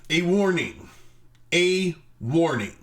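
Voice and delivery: booming, ominous mock warning. Comic opening a review with an ominous warning. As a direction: intone it like a doomsday trailer.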